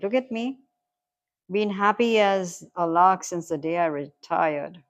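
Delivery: chummy, emphatic stranger, projected; matey stranger giving advice. Acted. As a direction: buck up a downcast mate. Reads the stranger's pep talk.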